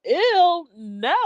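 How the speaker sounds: high "ew", dropping to a firm no; mock-disgusted recoil; retold grossed-out reaction; disgusted refusal. Retold disgusted refusal to her friend.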